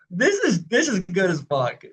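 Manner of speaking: excited reaction. Retold or imitated. Recalling seeing them live, excited. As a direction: blurt it out, mildly wowed.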